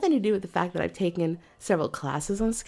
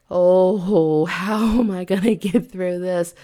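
loud, drawn "oh" of exasperation; playful groaning despair; mock dismay; 5 dB louder, slower than usual. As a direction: act out overwhelmed self-doubt. Dismay at tomorrow's booking.

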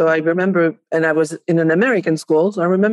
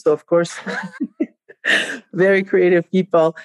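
laughing. Real, not acted. Laughing about the no-rules rule.

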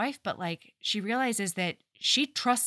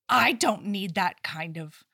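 indignant Jamie; 2 semitones higher than usual. Retold or imitated. Jamie's proud English retort.

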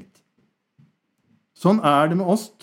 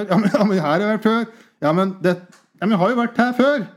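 mock exasperation; 7 semitones higher, 4 dB louder than usual. Mocking repetitive prayer.

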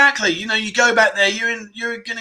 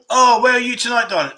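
femme fatale; 5 semitones higher than usual. Pretend. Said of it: "So I'm now the bar girl".

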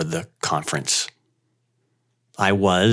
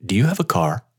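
put-on thick Indian accent. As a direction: speak with a heavy Indian accent. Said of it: "in his thick Indian accent".

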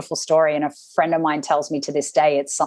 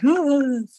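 mock gasp; 9 semitones higher than usual. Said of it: "outwardly I'm like".

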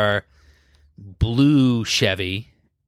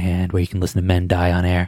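mock ASMR; 7 semitones lower than usual. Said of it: "do a little A S M R here".

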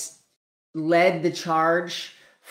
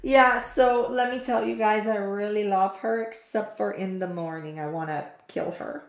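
dog voice; 5 semitones higher than usual. Pretend. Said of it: "They had something they wanted to say to you guys".

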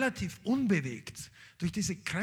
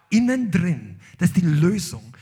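emphatic preaching; 9 dB louder than usual. Real, not acted.

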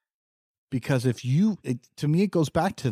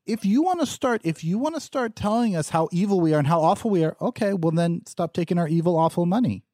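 heated; 5 semitones higher than usual. Real, not acted. Heated rant about money.

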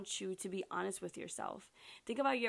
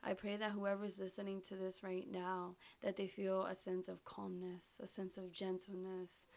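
heartfelt prayer. Real, not acted. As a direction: speak sincerely to God, gently and steadily. Leads listeners in prayer.

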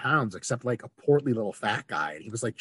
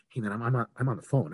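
polite brush-off. Retold or imitated. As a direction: put him off mildly, mid-call. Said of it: "I literally said it just like that".

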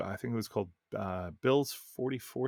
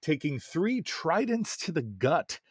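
reading aloud. Acted. Reads a listener's game story.

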